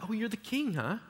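sneering mock. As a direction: tease him like a scornful soldier. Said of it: "the soldiers are loving this".

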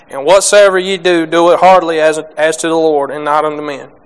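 measured, emphatic Bible reading; steady scripture reading to the congregation. Acted. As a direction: read the verses out like from the pulpit. Reads scripture aloud before sermon.

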